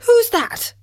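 startled. Acted. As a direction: jump in fright. Startled frog in dark.

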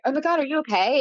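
high startled question; alarmed concern. Retold or imitated. Girl asking her pale friend if she's okay, high alarm. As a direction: react to a friend suddenly going pale. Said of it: "I'm like".

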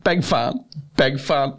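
high, giddy little thanks; starstruck fan. Retold or imitated. Fan thanking a remembered comedian, high starstruck voice. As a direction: squeak it like a smitten fan. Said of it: "And I'm like".

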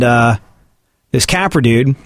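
ordinary delivery

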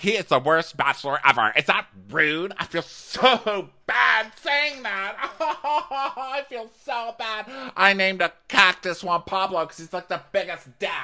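high, giggly mock contestant voice; a light put-on girly gossip voice; quoting a contestant. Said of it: "She's like".

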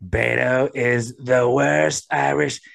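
slow, lightly mimicked political put-down; Trump. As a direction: draw out the insult in a light impression. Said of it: "Ah, it's Trump".

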